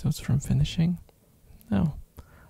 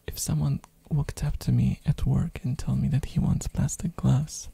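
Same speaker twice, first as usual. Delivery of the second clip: ASMR whisper. Real, not acted. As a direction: whisper close to the mic.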